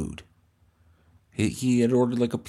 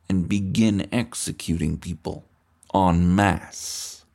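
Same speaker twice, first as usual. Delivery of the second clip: mock dictator; 3 semitones lower, slower than usual.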